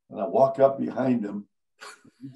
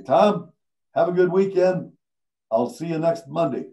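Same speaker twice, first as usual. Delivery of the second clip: loud, higher, breezy so-long; cheery fake goodbye; 4 semitones higher, 4 dB louder than usual. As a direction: sell the fake exit with a bright call. Mock farewell to fool colleague.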